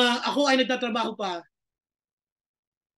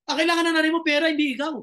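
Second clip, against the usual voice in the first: faster, higher retelling of the insult; mock angry repeat; 4 semitones higher, faster than usual. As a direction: spit the boss's words back, a touch indignant. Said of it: "lalo talaga ako nagalit". (ginagaya nang may inis ang masakit na sinabi ng boss)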